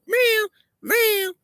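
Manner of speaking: very high mocking meow; cat meow. Uncle's joke about his guitar, a high cat meow. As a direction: mew like a cat to mock the uncle. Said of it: "I sound like I'm playing a cat".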